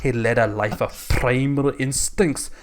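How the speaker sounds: mock Scottish narration; comic Scottish storyteller; Scottish accent. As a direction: read on in a lightly put-on Scottish accent. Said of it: "Do it all in that accent from now on".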